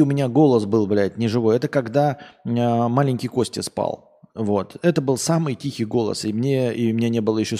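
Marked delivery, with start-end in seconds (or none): none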